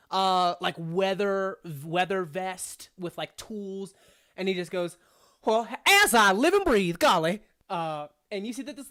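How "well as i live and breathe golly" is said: put-on loud, hollering old prospector; crazy old prospector. Gnome popping out of the storm drain, old prospector. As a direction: whoop it out like an amazed prospector. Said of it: "crazy old prospectors".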